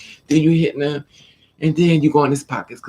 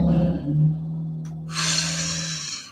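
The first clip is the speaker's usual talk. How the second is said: deep calming sigh; 4 dB quieter than usual. Retold or imitated. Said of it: "take deep breaths".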